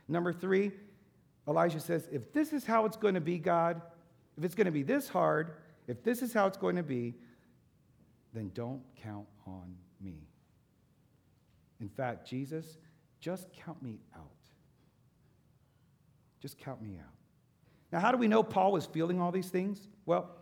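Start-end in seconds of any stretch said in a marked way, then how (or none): 2.1-7.2 higher and louder, pleading with God; a prophet at the end of his rope, pleading loudly; pleading complaint. Acted. Preacher voices Elijah's despairing complaint. 8.3-17.1 defeated. Acted. Elijah giving up, voiced.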